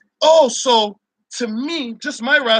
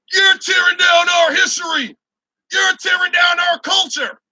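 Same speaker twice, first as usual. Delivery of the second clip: mock outraged white people; 7 semitones higher than usual. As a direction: shout it like an indignant protester. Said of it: "be like".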